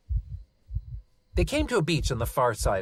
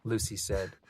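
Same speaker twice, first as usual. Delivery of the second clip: put-on child voice; 7 semitones higher than usual. Lucy eager.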